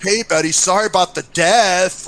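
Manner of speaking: slightly hammed-up condolence; tactless mock condolence. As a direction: imitate clumsy sympathy, stretching the last words. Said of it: "yeah, in that way".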